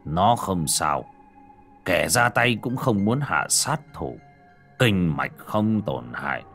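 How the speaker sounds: slow, steady, reassuring elder; calm and reassuring. Acted. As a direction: settle everyone's nerves, slowly. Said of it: "nét mặt trấn định".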